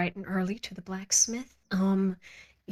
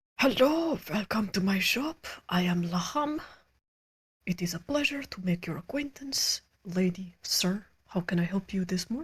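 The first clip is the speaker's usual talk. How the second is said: burly shopkeeper character voice. Narrator voicing a shopkeeper greeting customers in his shop, Laham shopkeeper voice. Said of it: "sort of turns to you with his beefy forearms and goes".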